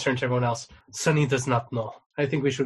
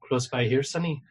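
put-on Spanish accent; 3 dB louder than usual. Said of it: "what's wrong with my accents today".

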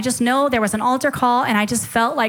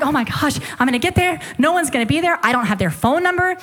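higher-pitched, mildly panicked worrying; retold freaking out; 3 semitones higher than usual. Young traveler fretting about arriving alone at the airport, mildly panicked. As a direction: spiral through worries, acting out your own panic. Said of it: "freaking out".

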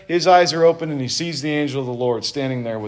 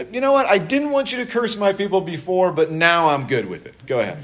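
sarcastic God; 4 semitones higher than usual. Retold or imitated. God mockingly caving in.

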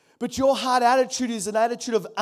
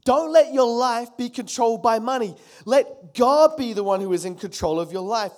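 Don't let said loud and pressing; a father's loud insistent warning to his daughter Joelle; louder insistent repeat; 2 semitones higher, 6 dB louder than usual. Retold or imitated. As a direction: drive the warning home to daughter. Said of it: "I've been saying to her".

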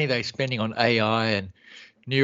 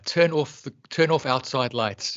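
over-careful order to a speaker; slow clear command; slower than usual. Retold or imitated. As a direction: spell it out slowly for a device. Quoting command to voice assistant.

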